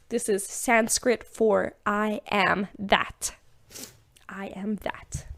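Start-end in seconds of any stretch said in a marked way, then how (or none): 4.3-5.3 soft, voiceless whisper; hushed repeat, all breath and no voice. Real, not acted. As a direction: whisper it like a quiet affirmation.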